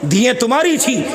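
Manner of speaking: sudden shout to the crowd; fiery preacher's shout; preaching shout. Real, not acted. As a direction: shout the line at the congregation.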